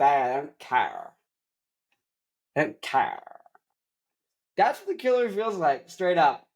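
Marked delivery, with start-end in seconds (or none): 0.0-3.2 slow, lightly voiced apathetic clerk; unbothered, dragging the words; bored drawl. Bored worker repeating.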